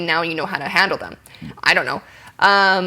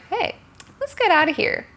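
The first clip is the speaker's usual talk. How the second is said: casual invite; 12 semitones higher, 3 dB quieter than usual. Shown as a demonstration. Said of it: "if they're like".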